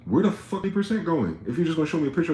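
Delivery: loud, high exasperated demand; real ranting disbelief; indignant outburst. Real, not acted. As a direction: blow up at the numbers. Ranting about farm supply.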